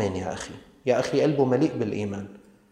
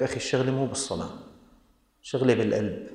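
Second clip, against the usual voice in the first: quick, softer dismissive brush-off; mock excuse maker; 4 dB quieter, faster than usual. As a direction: wave it away as a lame excuse. Mocking an educated excuse-maker. (تقليد ساخر لمتعلم يتهرب)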